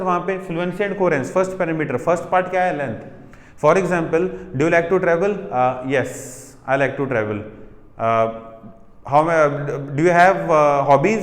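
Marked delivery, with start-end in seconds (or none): 5.3-7.4 hesitant student answering in a flat low voice; lower, hesitant student reply; weak one-word answer. Shown as a demonstration. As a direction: play the timid student giving a short reply. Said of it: "One word answer".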